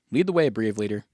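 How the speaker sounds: loud mock deference; sarcastic. Companion to the angry leader, sarcastic. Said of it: "Your sarcasm is really profound".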